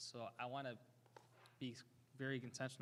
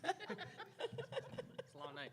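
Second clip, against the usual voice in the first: laughing; much slower than usual. Real, not acted. Laughing during roll call.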